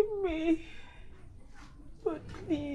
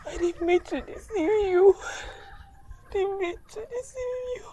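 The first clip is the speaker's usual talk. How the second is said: sobbing apology; 3 semitones higher than usual. Acted. Wife sobs apology.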